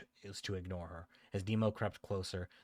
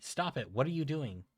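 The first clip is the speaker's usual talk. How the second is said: panicked protest; 7 semitones higher, 4 dB louder than usual. Acted. Bully in pain, protesting.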